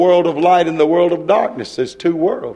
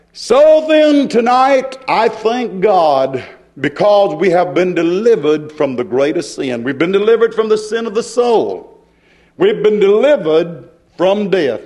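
fervent preaching. Acted. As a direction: proclaim deliverance to the congregation. Preaches at full force.

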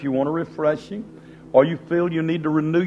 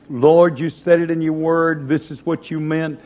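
louder, confident Lord; believing prayer; 4 dB louder than usual. Retold or imitated. Preacher acting out a prayer of faith, confident. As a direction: declare it to God with certainty. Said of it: "when we begin to believe".

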